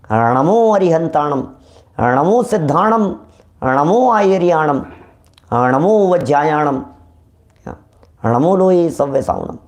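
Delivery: each line of the Namokar mantra spoken slowly and deliberately; careful devotional recitation; correct mantra recitation. Shown as a demonstration. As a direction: model the proper recitation for the listeners. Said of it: "नमो है ही नहीं हमारे यहाँ".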